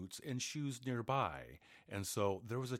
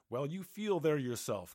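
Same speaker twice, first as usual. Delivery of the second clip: irritated giant; 5 semitones higher, 6 dB louder than usual. A narrator's reading. Giant snaps at his wife.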